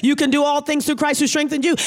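fast, emphatic, insistent encouragement; encouraging voice of God. Retold or imitated. God answering the doubting believer, fast and insistent. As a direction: push the words out quickly to lift them up. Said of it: "He's saying".

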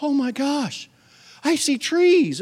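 high, excited discovery; amazed wonder. Retold or imitated. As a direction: marvel like a child. Boy seeing clearly for first time.

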